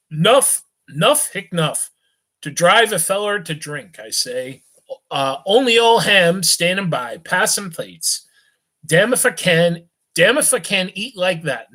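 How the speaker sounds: put-on sway through it like a cheerful drunk; tipsy young gent.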